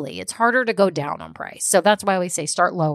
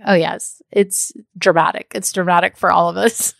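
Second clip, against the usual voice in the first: laughing reassurance. Retold or imitated. Coach reassuring a client on a call, laughing lightly. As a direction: chuckle as you comfort the client. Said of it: "And I'm like".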